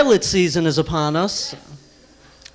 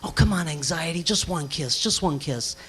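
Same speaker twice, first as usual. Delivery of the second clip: put-on pleading boyfriend; 5 semitones lower, 9 dB quieter than usual. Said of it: "Anxiety's first kiss".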